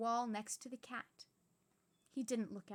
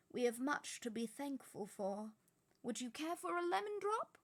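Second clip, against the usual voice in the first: higher, lightly playful offer; cheerful old wizard; 3 semitones higher than usual. Acted. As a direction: offer it brightly, a little odd. Dumbledore offers sweet.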